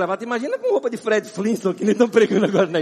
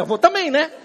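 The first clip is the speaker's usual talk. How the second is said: laughing self-quote; 7 semitones higher, 5 dB louder than usual. Retold or imitated. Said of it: "eu falei".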